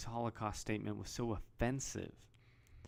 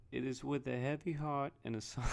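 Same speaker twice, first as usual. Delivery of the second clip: put-on a half-hearted try at Trump's accent, pitch raised; a brief, broken-off attempt at Trump's accent; 5 semitones higher than usual. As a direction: start reading it in Trump's accent, then give up. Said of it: "I can't do his accent".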